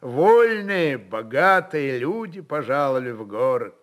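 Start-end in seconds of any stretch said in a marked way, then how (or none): none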